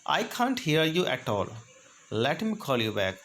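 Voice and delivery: slow and deliberate; slow model phrase. Shown as a demonstration. Teacher showing how to end a call on a dead line, slow. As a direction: lay each word out clearly. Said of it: "next है".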